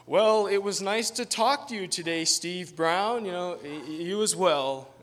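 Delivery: high, loud, laughing farewell with stammer; awkward laughing goodbye. Retold or imitated. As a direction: stumble through the goodbye laughing. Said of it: "I'm like".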